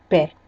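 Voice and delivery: Pé with an open é; open E demo. Shown as a demonstration. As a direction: repeat Pé, vowel open. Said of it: "um E diferente do outro".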